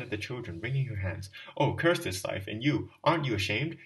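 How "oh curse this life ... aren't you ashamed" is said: louder, cursing reproach; wife turning on the stranger, bitter and louder. Acted. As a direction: turn on the stranger in anger. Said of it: "shouting in despair".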